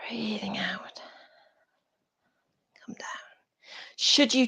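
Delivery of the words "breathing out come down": soft exhale cue. Shown as a demonstration. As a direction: draw it out softly like a long exhale. Guiding class through an exhale.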